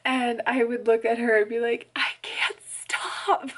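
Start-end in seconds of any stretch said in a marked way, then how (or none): 2.0-3.5 high, slow imitation of sobbed words; hammed-up tearful wail; mock crying. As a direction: squeak it out like helpless weeping. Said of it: "I started crying so hard".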